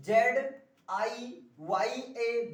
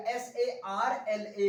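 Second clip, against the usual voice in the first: slow spelling; much slower than usual. Shown as a demonstration. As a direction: spell एस ए आर एल ए slowly, each letter apart. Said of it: "ये वाला होगा". (धीरे धीरे spelling)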